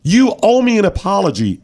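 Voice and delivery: high-pitched mock demand; indignant player. Host mimicking player demanding apology from umpire, mock indignant. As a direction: imitate a player insisting on an apology. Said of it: "got indignant over and over".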